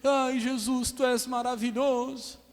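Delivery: high, drawn-out swooning praise; exaggerated, slow, high-pitched hallelujah; mock pious worshipper. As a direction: imitate showy Sunday devotion. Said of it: "num domingo tá aqui".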